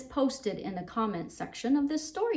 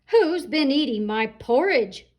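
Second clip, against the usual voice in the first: louder, booming papa rhino; big roaring Daddy Rhino; 3 semitones higher, 6 dB louder than usual. Acted. Daddy Rhino finding his porridge eaten, booming roar. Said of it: "roared Daddy Rhino in his great big voice".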